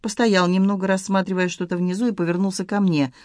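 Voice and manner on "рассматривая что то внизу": ordinary delivery, nothing marked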